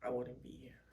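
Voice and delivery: choked up with tears; thanking a friend while crying. Real, not acted. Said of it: "let me stop all this crying".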